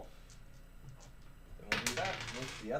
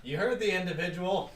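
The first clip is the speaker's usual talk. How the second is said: amused; 5 semitones higher, 7 dB louder than usual. Real, not acted. Teasing party, laughing.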